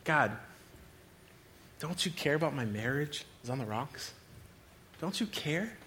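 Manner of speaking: hushed, questioning prayer; acted quiet desperation. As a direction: plead softly as if worn down. Acted desperate prayer over failing marriage.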